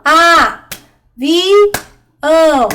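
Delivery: A - vi - ão, three beats with long gaps; syllable by syllable. Shown as a demonstration. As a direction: count out "A, vi, ão" as separate syllables for children. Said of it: "vai contar as sílabas".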